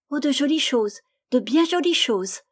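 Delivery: put-on a child showing off her treasures; high excited girl's whispered cry; joyful cry. A narrator's reading. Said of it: "s'écria la petite toute joyeuse".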